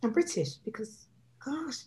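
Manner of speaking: lightly exaggerated British accent, soft and polite; put-on British accent. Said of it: "I'll put on this accent".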